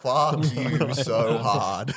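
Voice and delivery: drawn out very slowly, playful grudge; mock outrage. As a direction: stretch every word in teasing mock anger.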